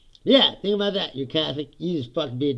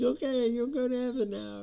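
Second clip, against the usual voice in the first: mock nun; 10 semitones higher, 4 dB quieter than usual. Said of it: "she's like".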